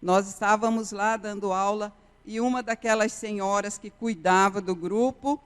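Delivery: usual speaking voice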